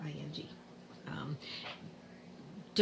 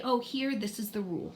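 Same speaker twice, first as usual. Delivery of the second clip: kind teacher voice; 3 semitones higher, faster than usual. Shown as a demonstration. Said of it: "just say".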